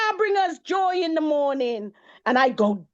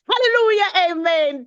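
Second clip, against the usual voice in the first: joyful hallelujah; 4 semitones higher, 3 dB louder than usual. Acted. Praise exclamation in poem.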